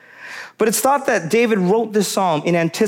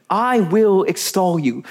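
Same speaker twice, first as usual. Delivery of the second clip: reverent; slower than usual. Shown as a demonstration. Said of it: "you can hear the reverence in his voice".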